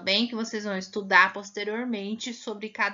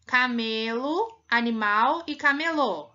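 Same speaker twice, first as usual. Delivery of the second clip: slow camelo stressed on me, camelô on lô; contrasting stress; 3 dB louder, slower than usual. Shown as a demonstration. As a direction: move the stress to the end. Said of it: "muita diferença ou não?".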